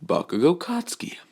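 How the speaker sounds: high, whispered full name; menacing whisper. Acted. Izuku coldly naming his rival, whispered. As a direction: hiss the full name like a threat.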